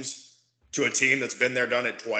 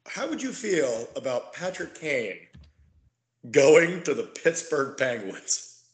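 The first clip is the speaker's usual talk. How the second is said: very slow, eerie rumor-monger voice; witching hour voice; slower than usual. Pretend. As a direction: draw it out like a spooky campfire tale. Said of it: "my witching hour voice".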